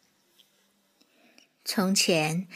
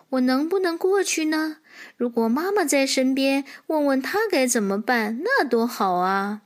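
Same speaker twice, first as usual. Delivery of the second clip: mildly worried foal thinking aloud; troubled little horse; 4 semitones higher than usual. Acted. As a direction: wonder uncertainly, starting on a higher pitch. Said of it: "小马为难了， 心想". (小马略带为难地自言自语)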